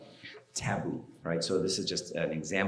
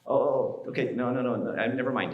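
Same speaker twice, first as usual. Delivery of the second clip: hurried backpedaling; 5 semitones higher than usual. Retold or imitated. Son stopping dad going to the principal, mock alarmed backpedaling. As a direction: back down in a stammered string of refusals.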